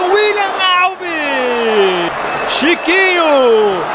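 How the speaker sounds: slow, stretched scorer's name; drawn-out name call. Real, not acted. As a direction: draw each name out long.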